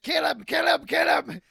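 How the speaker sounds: mock coach yelling in his ear; high, loud, repeated barked urging; imitated urgent shouting. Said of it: "Ken is just".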